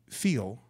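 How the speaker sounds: "feel" set apart after a long pause; stress on feel. Real, not acted. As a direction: isolate the word "feel" for emphasis. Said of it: "I emphasize the word feel".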